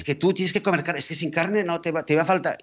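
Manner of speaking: lightly mock the doctor's certainty; mock lecturing doctor.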